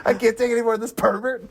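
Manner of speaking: laughing while quoting the pervert line; laughing quote. Acted. Podcast host quoting a movie line while laughing. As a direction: quote blurted out through laughter.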